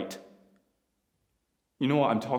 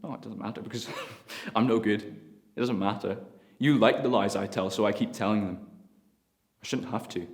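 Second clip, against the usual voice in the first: bitter confession; 3 semitones higher, 7 dB louder than usual. Acted. Son confessing to his father, defeated. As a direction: let the fury drain into regret.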